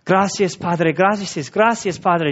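lightly voiced Carlos, a heartfelt murmured thanks in Spanish; imitating Carlos praying. Pastor imagines Carlos praying, a light devout imitation. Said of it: "I can just hear Carlos going".

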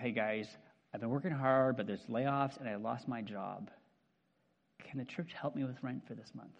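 quiet, subdued asking for help; humble plea. Retold or imitated. Andrew asking the church for rent money, quiet and humble. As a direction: ask the church gently, embarrassed. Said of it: "And Andrew comes to church and says".

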